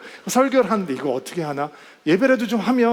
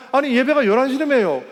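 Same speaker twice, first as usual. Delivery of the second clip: 예배가 stressed, higher and louder, falling like a reproach; indignant protest; 6 semitones higher, 4 dB louder than usual. Retold or imitated. Pastor to the late driver, higher, louder, indignant. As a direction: press on 예배가, puzzled and put out. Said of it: "그래서 제가".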